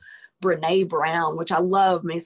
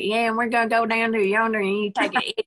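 playful put-on Southern accent, pitched higher; mock Southern accent; 5 semitones higher than usual. Host teasing guest from Arkansas, in a mock Southern accent. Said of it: "being from Arkansas, I figured you'd be like".

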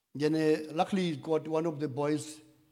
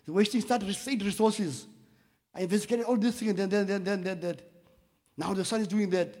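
imitating angry investigator; 5 semitones higher than usual. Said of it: "He was angry".

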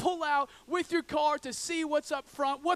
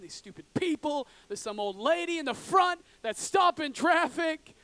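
louder, higher, fed-up griping at the traffic; mock road rage; 5 semitones higher, 4 dB louder than usual. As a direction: rant at the stopped cars like an impatient driver. Imitating driver angry in traffic jam.

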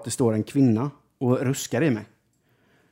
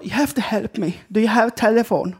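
high, broken-English woman's voice; the stranded woman asks if fifty crowns will do; imitating the Polish woman; 9 semitones higher than usual. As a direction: play her pleading in broken English, pitched way up. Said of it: "Och hon bara".

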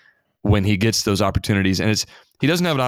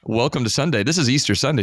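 retold jokey surprise, pitched well up; mock surprised greeting; 5 semitones higher than usual. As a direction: act caught off guard but keep it breezy. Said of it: "And I'm like".

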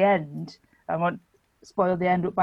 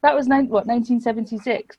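shocked disbelief; 4 semitones higher than usual. Retold or imitated. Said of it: "and it's like".

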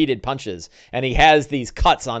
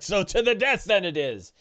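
grim orc; 5 semitones higher than usual. Acted. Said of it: "but he's like".

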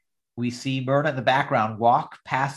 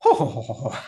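Oscar mocking her prim titter; a teasing copy of the ladylike laugh; 4 dB louder, much faster than usual. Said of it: "he points to him and says".

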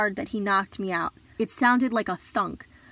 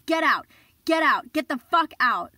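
retold scream, much higher and louder; 6 semitones higher, 4 dB louder than usual. Kicking the boyfriend out of bed, screaming. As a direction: scream him out of the room. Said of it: "I was screaming".

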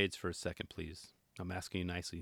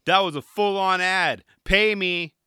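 mock demand; 6 semitones higher, 7 dB louder, slower than usual. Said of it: "He's like".

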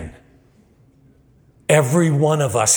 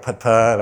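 slow puttering boat noise; boat engine putt. Retold or imitated. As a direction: mimic a sluggish motor. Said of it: "It's like".

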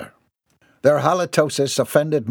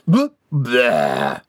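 belch; 4 dB louder than usual. Acted. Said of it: "he belched again".

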